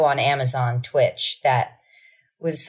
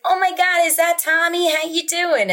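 much higher gushing mom voice; excited mom; 13 semitones higher than usual. Retold or imitated. Mimicking mom thrilled to see Tommy, gushing.

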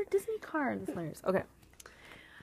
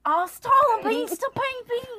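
Terminator catchphrase; 9 semitones higher, 8 dB louder than usual. Pretend. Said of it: "the end of the freaking podcast".

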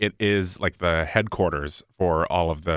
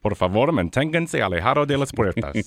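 Spanish announcer voice, a bit higher; train station announcement; 4 semitones higher than usual. Shown as a demonstration. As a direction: repeat the Spanish door warning like the announcer. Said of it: "Say the Spanish version again".

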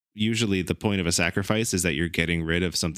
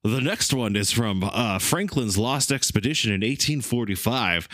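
smooth radio announcer voice; Casey Kasem voice; 2 semitones higher than usual. Shown as a demonstration. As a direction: countdown host read. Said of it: "Casey Kasem".

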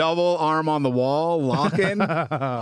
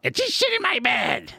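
imitating the comic; 4 semitones higher than usual. Comic boasting to the room about a waitress, mocking impression. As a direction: impersonate a crude comic, pitch leaping at the end. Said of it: "He's like".

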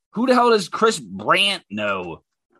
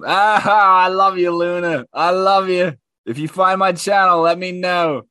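loud, raised cry of affection; gushing shout; 4 semitones higher, 5 dB louder than usual. Real, not acted. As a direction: call out your love, loud and high. Gushing loudly at commenter Luna.

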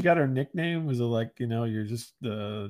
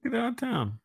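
amazed disbelief; 9 semitones higher, 5 dB quieter than usual. Real, not acted. Disbelief at the Jersey Shore news.

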